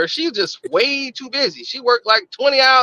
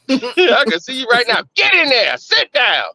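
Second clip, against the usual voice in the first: mock stern nurse, a little raised; bossy orders. Bossy nurse commanding a patient to stay in bed, mock stern. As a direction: order a patient about in playful imitation.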